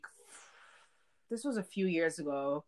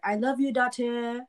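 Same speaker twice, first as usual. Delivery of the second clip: slightly higher, slower mom voice; mimicking mom; 5 semitones higher than usual. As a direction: play the mother saying it warmly. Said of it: "she'll be like".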